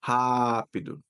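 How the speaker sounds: "rápido" with a long, stressed RÁ; stress on first syllable. Shown as a demonstration. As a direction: say "rápido" as HAA-pee-doo. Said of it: "In Portuguese".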